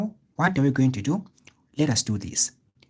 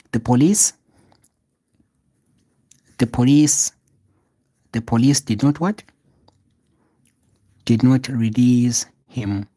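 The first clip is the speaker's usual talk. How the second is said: loud, drawn-out read with repeated pauses; teacher dictating loudly, slowing on release him; loud slow dictation; 8 dB louder than usual. Shown as a demonstration. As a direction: spell the sentence out loudly for students copying. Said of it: "This is how you are going to present it".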